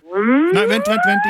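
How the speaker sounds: high, hurried calls to stop; urgent wait. Real, not acted. Prankster halting the countdown, high and urgent. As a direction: cut her off quickly, pitch shooting up. Host stops her.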